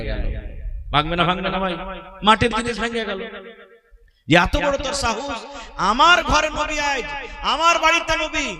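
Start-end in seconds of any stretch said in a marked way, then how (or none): 4.3-8.5 higher, outraged wife scolding the maid; indignant anger. Acted. Ayesha scolding the maid for bringing curry, raised outraged voice. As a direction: let the jealous fury rise in pitch. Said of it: "যেমন খালি মা আয়েশা শুনলেন".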